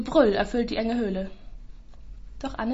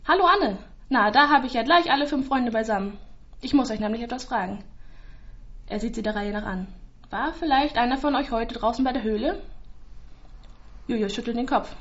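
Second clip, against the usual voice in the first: policeman voice. Acted. Village policeman speaks to children.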